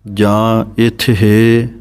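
ਇਥ ਹੈ stretched very slowly, split apart; wrong reading. Shown as a demonstration. Teacher shows a second wrong way to read it. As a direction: draw ਇਥ ਹੈ apart slowly as an error. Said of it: "ਗਲਤ ਬੋਲ ਜਾਂਦੇ ਹਨ".

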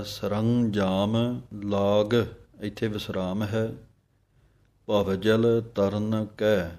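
ਸਰੰਜਾਮ ਲਾਗ, a pause, then ਭਵਜਲ ਤਰਨ ਕੈ slowly; separated phrases. Shown as a demonstration. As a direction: read the phrases apart with a pause. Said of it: "ਵੱਖਰੇ ਵੱਖਰੇ ਪੜ੍ਹਨੇ ਹਨ". (ਵਿਸਰਾਮ ਨਾਲ ਵੱਖਰੇ ਪਾਠ)

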